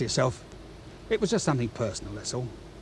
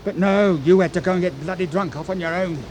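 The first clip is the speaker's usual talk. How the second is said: angry accusation; 3 semitones higher than usual. Acted. Smythe accuses Macready of getting drunk.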